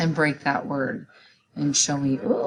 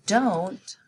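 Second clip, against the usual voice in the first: each word slow and separate for writing; spelling-test dictation, slow and clear; much slower than usual. Shown as a demonstration. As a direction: dictate it slowly to the class. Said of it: "So the sentence is".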